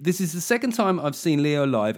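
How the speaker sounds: mocking the complainant with a whiny, patronising read. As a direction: read it like a smug complainer, dragging it out. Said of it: "read it in a really patronising, sort of whiny fucking voice".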